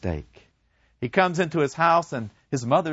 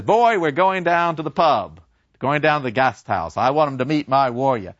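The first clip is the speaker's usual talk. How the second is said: louder, booming proud dad; father hauling his soldier son to the pub; 3 semitones higher, 5 dB louder than usual. Acted. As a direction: show off your son to the pub.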